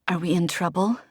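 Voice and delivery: hoarse, near-whisper after crying; hoarse question. Acted. Desi asking Guillermo, hoarse from crying. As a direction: croak it out, wrung dry. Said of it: "I asked hoarsely".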